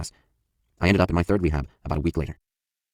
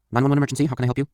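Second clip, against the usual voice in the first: higher, brisk operator voice; dispatcher voice; 8 semitones higher, faster than usual. Retold or imitated. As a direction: answer like an emergency dispatcher. Emergency dispatcher answers call.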